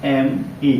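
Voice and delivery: each letter of एस एच ए एम ई spaced out slowly; teacher dictating letters of a word one by one; slow letter-by-letter spelling. Shown as a demonstration. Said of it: "देखिए ऐसे".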